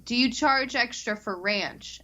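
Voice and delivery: slow, slightly high, patient question; retold repeated order. Guest repeats ranch question to worker, slowly enunciated. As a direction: spell it out for someone who missed it.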